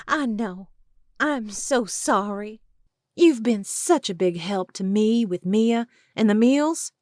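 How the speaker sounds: high, loud pleading woman's voice; high-voiced desperate woman.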